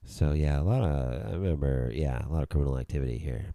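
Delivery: a hint of strung-out addict; low, lazy, rambling junkie. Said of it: "Such your addict voice".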